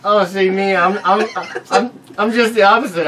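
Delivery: loud, high and eager; excited. Real, not acted. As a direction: jump in excitedly.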